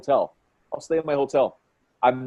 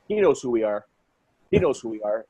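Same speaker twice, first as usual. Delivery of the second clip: lower, untroubled reply; calm, unbothered; 4 semitones lower, 3 dB quieter than usual. Retold or imitated. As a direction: answer with easy, settled assurance. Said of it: "all calm and all happy".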